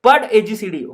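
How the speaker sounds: mock scolding in a Rajasthani lilt; Rajasthani teacher. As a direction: play the teacher telling Jarnab off in Rajasthani style. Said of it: "madam कहती है".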